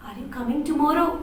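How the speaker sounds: soft, quick sweet ask; gently hopeful invitation. Shown as a demonstration. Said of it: "in a very sweet voice".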